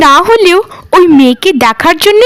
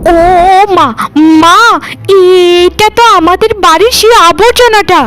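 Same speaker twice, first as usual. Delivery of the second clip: high, indignant disbelief; shocked outrage; 5 semitones higher than usual. Acted. Stepsister spots Rupa beside the zamindar's son, high shocked outrage. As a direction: squeal in outraged surprise, pulling at mother.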